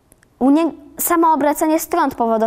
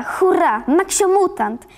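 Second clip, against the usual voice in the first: higher, drawn-out excited announcement; gleeful cheer; 7 semitones higher, slower than usual. A narrator's reading. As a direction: cheer for a favourite show. Karolek cheers his favourite show. (radosny, wysoki okrzyk)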